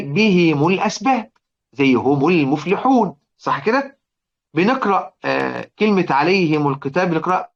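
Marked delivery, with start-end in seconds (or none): 0.0-1.3 بهم الأسباب read slowly as bihim, kasra on the mim; careful recitation demo. Shown as a demonstration. Teacher showing students Abu Amr's reading, slow and careful. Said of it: "إحنا بنقرأها إزاي؟".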